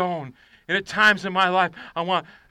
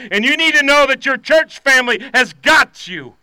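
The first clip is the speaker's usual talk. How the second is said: rousing preaching; 6 semitones higher, 7 dB louder than usual. Acted.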